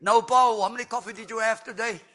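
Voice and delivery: high, scolding wife voice; mimicking Kim. Wife scolding her husband about coffee, high mock-stern voice.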